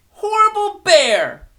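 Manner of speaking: loud, high furious yell; angry shout. Acted. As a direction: shout it out at the bear. Girl stomping and shouting.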